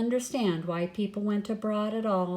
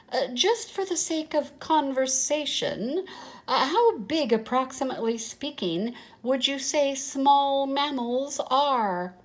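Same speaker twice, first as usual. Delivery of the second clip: casual tone; 5 semitones higher than usual. Acted. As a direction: pretend to be casual while nervous. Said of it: "in a casual, uh, sort of tone".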